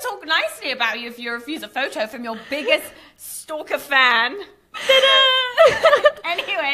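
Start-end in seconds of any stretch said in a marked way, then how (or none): 4.7-6.1 high, loud, sing-out reveal; showy flourish. Acted. Host presents the biggest stalker fan, showy flourish. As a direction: present it like a magician's finish.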